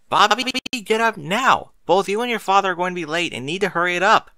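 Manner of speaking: high, loud, scolding shout through a door; stern shout. A narrator's reading. Mother pounding on her son's door, scolding shout. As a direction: bang on the door and demand he get up.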